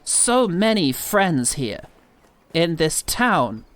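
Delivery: slow, halting poem reading; poem recital. Pretend. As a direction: recite it slowly like a poet. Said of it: "Do one now".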